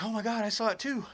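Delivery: high-pitched, re-enacted astonishment; retold shocked exclamation. Storyteller answering Susan about Bigfoot, retold shock. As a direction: act out your own startled reply. Retells own shocked reply.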